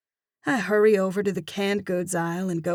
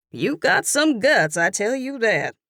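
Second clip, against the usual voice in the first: louder, higher, quick gossipy ribbing; chiding southern cashier; 5 semitones higher, 6 dB louder than usual. Acted. Cashier teasing the narrator about ice cream, chiding. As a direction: wag a finger at her.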